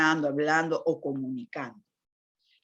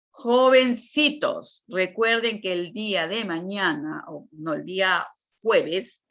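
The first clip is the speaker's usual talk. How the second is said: calling out to students; 2 semitones higher than usual. Shown as a demonstration. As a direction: call the class to attention like a teacher at the front. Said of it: "yo les voy a dar un ejemplo".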